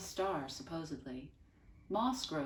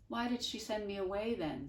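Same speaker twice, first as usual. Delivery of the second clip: shaky voice; 5 semitones higher than usual. A narrator's reading. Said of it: "His voice shook".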